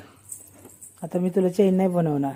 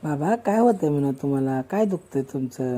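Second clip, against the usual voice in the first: gentle model line; 5 semitones lower, 4 dB quieter than usual. Shown as a demonstration. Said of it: "बाबा म्हणायचं".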